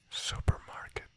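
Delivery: Supermarket said as English, supermarket; English word. Shown as a demonstration. Teacher giving the English word first. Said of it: "Let's make a resume about this".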